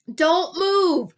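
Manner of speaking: high, loud command; shouting. Acted. Gary ordering Wally to freeze, loud shout. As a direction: bark the order. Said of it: "Gary shouted".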